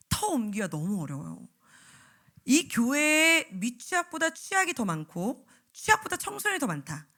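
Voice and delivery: ordinary talk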